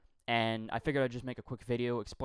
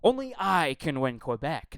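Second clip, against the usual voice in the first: louder mocking parody of the slogan; mocking candidate; 3 semitones higher, 5 dB louder than usual. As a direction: ham it up like a boastful candidate. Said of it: "the second thing was".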